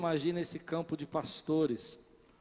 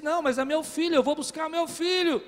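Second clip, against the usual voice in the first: higher and louder, voice straining; desperate insistence; 9 semitones higher, 7 dB louder than usual. Retold or imitated. Father insisting to guards he will fetch his son, loud and desperate. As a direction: demand your son back. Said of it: "de ira, de nervoso".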